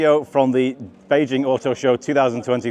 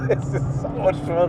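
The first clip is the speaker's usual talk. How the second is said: slow, higher-pitched delight; gleeful; 5 semitones higher, slower than usual. Real, not acted. Driver enjoying a hot lap, gleeful. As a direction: savour it with real glee.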